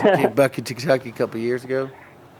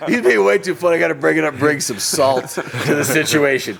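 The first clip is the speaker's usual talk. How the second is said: higher, louder, slowing on the last line; mock inner voice; 6 semitones higher, 5 dB louder than usual. Host mocking the shy caller's inner voice, higher and hammed up. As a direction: ham up a mock resolve to ruin the fun.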